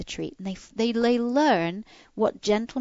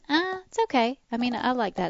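unimpressed dog voice; 5 semitones higher than usual. Retold or imitated. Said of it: "your dog goes".

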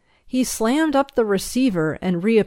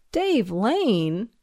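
understated groan of dismay; slightly groaned question; 3 semitones higher than usual. Acted. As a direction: echo the name with a mild groan. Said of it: "he groaned with a slow shake".

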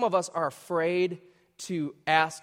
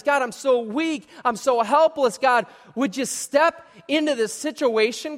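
pleading prayer; 5 semitones higher than usual. Retold or imitated. Preacher voices pleading prayer.

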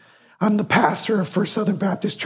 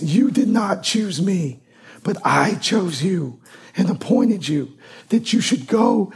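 scripture reading. Acted. Pastor reading John fifteen to the church, solemnly. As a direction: read the verse deliberately, word by word.

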